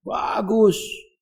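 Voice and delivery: high sarcastic "Bagus"; mock praise. Preacher mocking showy pious dress, high sarcastic praise. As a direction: sneer a mock compliment. Mocking fine clothes of hypocrites.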